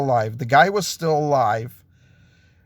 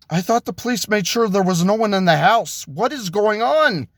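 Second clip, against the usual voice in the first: alarmed; 5 semitones higher than usual. Acted. Ron alarmed by noises in house.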